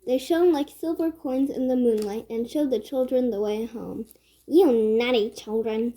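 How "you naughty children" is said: louder, scolding stepmother. Acted. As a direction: scold them for staying out. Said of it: "scolded their stepmother".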